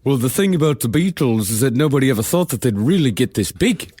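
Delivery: put-on lightly done Beatle-style Liverpool accent; attempted Liverpool accent. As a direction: have a try at a Liverpool accent. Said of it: "Yeah, let, let me try".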